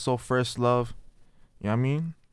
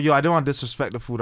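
retold pleading; 4 semitones higher, 6 dB louder, much faster than usual. Retold reaction at grandma's table.

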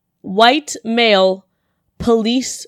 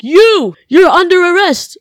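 louder, higher stern cop voice; mock cop; 9 semitones higher, 8 dB louder, slower than usual. Imagined cop finding her car, mock stern arrest call. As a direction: bark it like a cop making an arrest. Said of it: "He's gonna see my car and be like".

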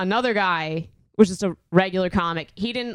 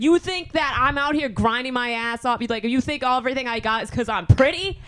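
higher-pitched indignant rant; retold losing it; 5 semitones higher than usual. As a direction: replay an outraged challenge to him. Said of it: "I, like, lost my shit".

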